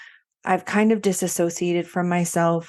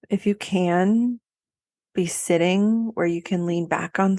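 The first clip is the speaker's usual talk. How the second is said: unhurried meditation voice with long pauses; guided body scan. Acted. Coach guiding listeners to get comfortable and feel held, unhurried meditation voice. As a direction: let each phrase settle before the next.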